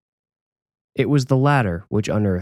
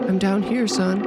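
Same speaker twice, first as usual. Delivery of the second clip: higher mother voice, muffled from below; 12 semitones higher than usual. Acted. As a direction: call up from the basement, muffled. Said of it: "Her muffled voice came from below".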